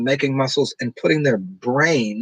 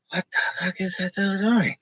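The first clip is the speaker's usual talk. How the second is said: mock disgusted adult; 6 semitones higher, 6 dB quieter than usual. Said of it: "you go".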